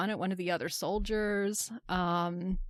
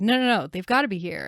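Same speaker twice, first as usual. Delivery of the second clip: louder, insistent retold denial; retold freaking out; 7 dB louder than usual. Host retells Frank at the empty blockade, freaking out. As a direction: lightly act out his panic. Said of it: "freaking out. He's like".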